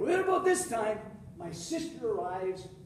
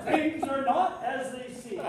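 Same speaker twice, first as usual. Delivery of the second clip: slow deliberate refrain; 3 semitones higher, 3 dB louder, slower than usual. Acted. Recurring punchline refrain.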